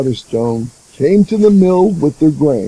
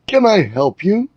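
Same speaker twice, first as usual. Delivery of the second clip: polite; 6 semitones higher than usual. Acted. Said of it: "Nora asked politely".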